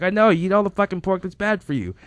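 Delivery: high-pitched, loud mock scolding; imitated ranting friend. Host retorts to his guest, mock ranting.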